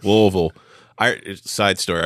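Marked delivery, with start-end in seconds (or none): 0.0-0.5 "Louisville" said as LOHL-vil; local pronunciation. Shown as a demonstration. Host giving the way locals say the city. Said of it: "you hear it".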